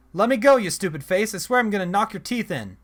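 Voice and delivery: loud, high angry threat; furious yell. Acted. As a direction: kick the stone and shout it. Kid kicks face in anger.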